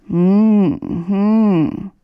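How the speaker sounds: sleepy murmur. A narrator's reading. Möndlein, still asleep, grumbling hums at his brother. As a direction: hum it half asleep, not waking. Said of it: "murmelte Möndlein".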